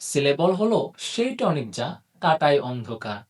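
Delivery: slow, measured verse with lilting phrases; rhyme recitation. Acted. Teacher opens the syllable lesson with a rhyme, slow recitation.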